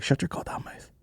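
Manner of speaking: unvoiced, hissed mock threat; whispered threat. Telling the meek driver off, a whispered mock threat. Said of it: "I was like".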